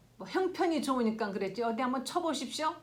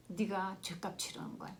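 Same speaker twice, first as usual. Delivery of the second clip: devil's whisper; 5 dB quieter than usual. Retold or imitated. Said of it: "그 마귀의 속삭임입니다".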